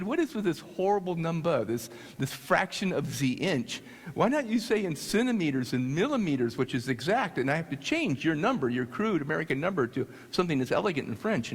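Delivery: put-on indignant French accent; French engineer. French engineer objecting to American inch fractions, indignant French accent. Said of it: "But the French engineer who actually ordered it".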